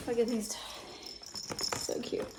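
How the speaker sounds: slow whispered cooing; whispering, slow and tender over tiny toys. Real, not acted. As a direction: coo softly over the toys.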